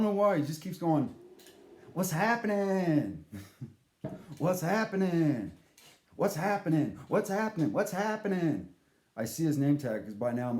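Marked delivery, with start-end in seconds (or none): 1.9-8.7 animated greeter. Retold or imitated. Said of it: "this animated guy going".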